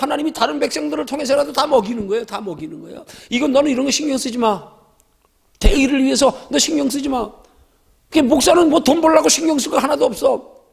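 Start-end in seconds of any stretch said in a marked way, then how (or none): 3.3-7.3 lightly voiced God reassuring his servant, a bit higher; a hint of God telling you not to worry; voicing God. Preacher voicing God to a pastor, lightly reassuring. God's voice addressing the believer.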